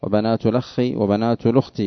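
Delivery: "الأخ" as lakhkhi, "الأخت" as lukhti, hamzas dropped; recited with naql. Shown as a demonstration. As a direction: link straight through the lam in "الأخ" and "الأخت", no hamza. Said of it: "لأنه يقرأ بالنقل".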